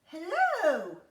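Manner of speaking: shouting up. Acted. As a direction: call it up to someone tall. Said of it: "Jack shouted up".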